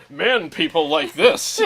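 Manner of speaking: slow, punchy advertising voice on "Man people like this"; mock ad slogan. Host jokingly voicing a fake amp ad. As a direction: sell it like a tongue-in-cheek commercial.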